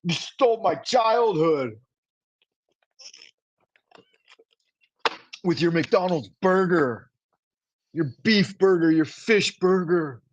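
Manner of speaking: slow, high, overdone indignant whine; mocking critics who shame him for eating McDonald's, high and slow; mock outrage. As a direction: ham up the offended critics scolding him. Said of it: "They're like".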